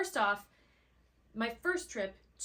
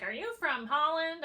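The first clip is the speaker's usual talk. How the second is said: retold curious question; 7 semitones higher, 6 dB louder than usual. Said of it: "someone's like".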